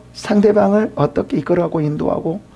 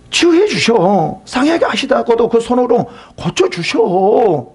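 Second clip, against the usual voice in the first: Eliphaz scolding Job; 7 semitones higher than usual. Acted. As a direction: lecture him like a self-righteous friend. Preacher acts Eliphaz scolding Job.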